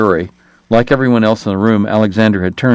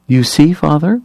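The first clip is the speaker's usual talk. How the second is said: high, sanctimonious church lady; preachy and shrill-voiced pious matron; prim scold; 6 semitones higher than usual. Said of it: "Margaret Hoover asked".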